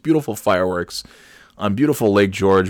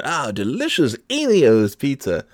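mock announcer; 6 semitones higher than usual. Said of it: "and I said".

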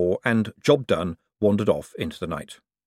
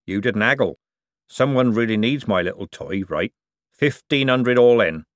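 lightly voiced old craftsman, rough and sly; a canny old seamer talking shop; old forger. Old forger lecturing the young buyer, sly.

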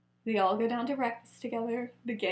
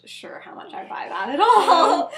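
laughing whisper; 7 semitones higher, 8 dB louder than usual. Acted. Lily doubting Remus, whispered laugh.

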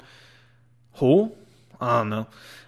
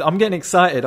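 real excitement breaking through, a touch louder and higher; can't hold back the excitement; getting excited; 4 semitones higher, 4 dB louder than usual. Real, not acted. Telling friends the story, genuinely excited. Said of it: "I'm getting excited talking about it".

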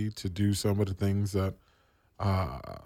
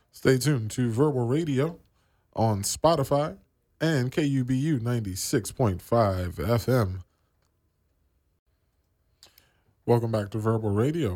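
radio plug; 3 semitones higher, 3 dB louder than usual. Acted. Radio host plugs the station.

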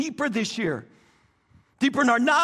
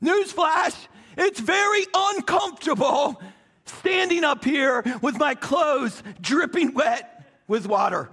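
emphatic preaching exclamation. Real, not acted.

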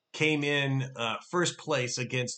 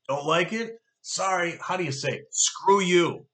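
mocking brush-off; 4 semitones higher, 4 dB louder than usual. Mocking dismissal of objectors.

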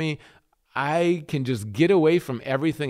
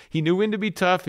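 higher, firm emphasis; emphatic first half of a contrast; tough; 5 semitones higher, faster than usual. Shown as a demonstration. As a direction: drive up the word tough.

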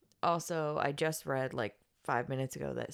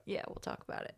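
whispering; 6 dB quieter, faster than usual. Real, not acted. Unvoiced, subdued.

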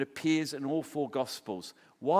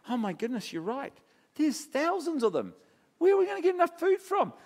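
rising, higher alarm as the numbers sink in; mock panic; 10 semitones higher than usual. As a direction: playfully act out a flustered disciple. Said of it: "he could be sitting there going".

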